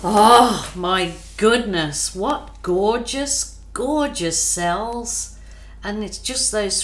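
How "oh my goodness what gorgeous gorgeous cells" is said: slow awe. Real, not acted. Marvelling at the cells.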